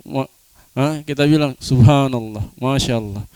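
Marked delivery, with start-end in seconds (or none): 1.6-3.3 subhanallah in admiring wonder, a bit lower; admiration. Shown as a demonstration. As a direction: say it as praise for something beautiful.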